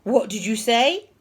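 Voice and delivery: loud, rising question; shocked disbelief. A narrator's reading. Teacher hearing Peter speak, loud disbelief. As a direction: demand it in disbelief. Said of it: "gasped Mister Nurden".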